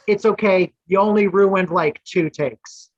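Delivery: teasing, smiling reassurance; lightly voiced co-star, smiling forgiveness; with a smile. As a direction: say it with a grin, slowing down at the end. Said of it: "he said it with a smile".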